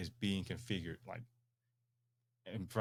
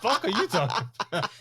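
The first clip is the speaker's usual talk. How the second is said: laughing; 13 semitones higher, 10 dB louder, faster than usual. Real, not acted. Host laughing at odd comment.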